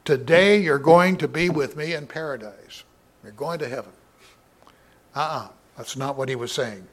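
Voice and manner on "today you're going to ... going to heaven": "Today" pushed up front and loud, as if starting the sentence; raised, louder demo of the misreading; wrong reading. Shown as a demonstration. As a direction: read it as "Today you're going to be with me", the mistaken way. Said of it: "after the word you".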